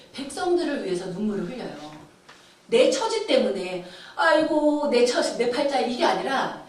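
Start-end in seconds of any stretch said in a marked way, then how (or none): 4.1-5.8 mock self-pitying wail; retold woe-is-me lament. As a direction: bemoan your lot, acting it out. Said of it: "탄식은 하지만".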